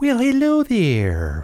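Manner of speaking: very high-pitched nanny-style voice. Greeting listeners as host at the start of a show episode, use a Mrs. Doubtfire voice. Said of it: "Sound like Mrs. Doubtfire".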